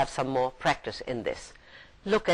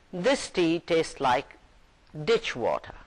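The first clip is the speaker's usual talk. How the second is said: grumbling. Acted. Customer complaining to the waiter, mild grumble. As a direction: mutter a complaint about the tea. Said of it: "grumbled to the waiter".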